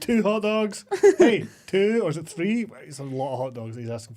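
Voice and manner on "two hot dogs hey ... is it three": louder, higher customer call; mock order shout. Retelling the agent ordering hot dogs, mock loud call. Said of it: "He's repeated".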